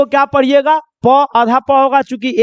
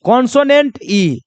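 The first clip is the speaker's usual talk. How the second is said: slow spelled pattern. Shown as a demonstration. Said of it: "जैसे देखो".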